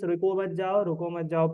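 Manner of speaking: "रुको मत जाओ" run together without a break; no pause at the comma. Shown as a demonstration. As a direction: read "रुको मत जाओ" straight through, ignoring the comma. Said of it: "अनपढ़ पढ़ेगा इसको". ("रुको मत जाओ" बिना रुके एक साँस में)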